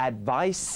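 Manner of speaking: "advice" with a clear hissed s at the end; final S sounded. Shown as a demonstration. Teacher showing viewers the last sound, final S sounded. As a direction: finish "advice" on an audible s sound. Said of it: "เสียงสุดท้ายนะครับ คือ S".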